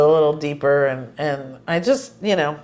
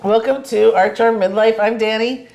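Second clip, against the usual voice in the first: crunching lozenge; 4 semitones higher than usual. Real, not acted. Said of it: "Sorry for the crunching".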